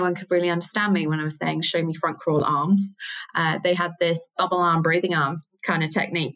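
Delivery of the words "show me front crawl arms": a light, self-mocking Australian accent; a quick borrowed Australian accent. Swim teacher instructing Sydney pupils in a light Australian accent. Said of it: "sorry about that terrible accent there".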